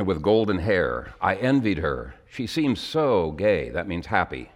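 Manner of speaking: measured, heartfelt poem reading; poem recitation. Acted. Preacher reads a poem to his congregation, heartfelt. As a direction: read each line like a confession.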